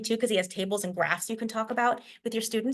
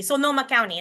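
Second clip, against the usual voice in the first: Sonoma with full Spanish o's; Spanish accent. Shown as a demonstration. Lecturer giving a news anchor's version, Spanish accent. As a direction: say Sonoma County with Spanish vowels in Sonoma. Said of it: "with a Spanish accent".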